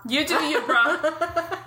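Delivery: laid-back surfer bro; lightly voiced dude-speak. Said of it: "hear Teal'c say that".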